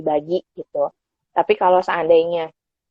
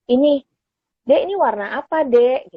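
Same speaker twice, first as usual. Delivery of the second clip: put-on higher, lively parent asking a toddler; parent quizzing child; 5 semitones higher than usual. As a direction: ask the little one the colour, pitched up. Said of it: "Contohnya kalau kita kasih lihat".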